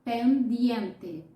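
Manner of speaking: pendiente said the Spanish way, pen-DIEN-te with a clear final e; Spanish pronunciation. Shown as a demonstration. Teacher modelling pendiente for Brazilian learners, careful Spanish pronunciation. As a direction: sound out pendiente slowly and clearly. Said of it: "você tem que dizer".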